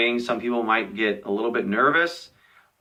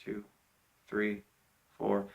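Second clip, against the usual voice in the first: quiet count; 2 semitones lower, 14 dB quieter than usual. Shown as a demonstration. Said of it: "you go".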